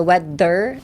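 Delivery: "weather" with a firm push on the th; strength on th. Shown as a demonstration. Teacher easing the R after TH, emphatic th. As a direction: lean into the th of "weather", then release the r. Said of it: "of strength in the T H".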